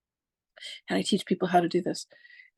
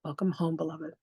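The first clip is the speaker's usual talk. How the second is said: soft welcome; 3 dB quieter than usual. Retold or imitated. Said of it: "And they said".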